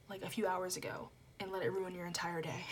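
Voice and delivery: soft whispered advice. Real, not acted. Whispering advice to her viewers. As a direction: hush it almost under your breath.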